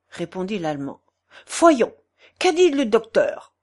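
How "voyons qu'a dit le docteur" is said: put-on higher, insistent German-accented question; German-accented demand. German friend asking the portress about the doctor, German-accented insistence. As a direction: press for news in a German accent.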